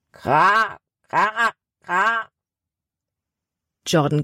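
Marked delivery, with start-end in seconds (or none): 0.1-2.3 fremder, krächzender Krähenruf aus der Ferne; echte Krähe. Acted. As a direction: wie eine Krähe im Wald antworten. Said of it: "antwortete eine Krähe im Wald". (Krähe antwortet aus dem Wald, krächzend)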